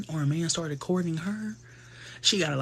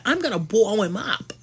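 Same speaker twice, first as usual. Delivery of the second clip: Piper voice; 6 semitones higher than usual. Retold or imitated. Young Piper voiced, threatening.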